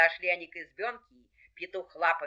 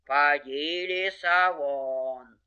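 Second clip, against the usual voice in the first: low, restrained bear bellow; crying-out bear; 5 semitones lower, much slower than usual. Acted. Bear orders the fox out, mildly bellowing. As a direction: call out low, stretching the words. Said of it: "Медведь как закричит".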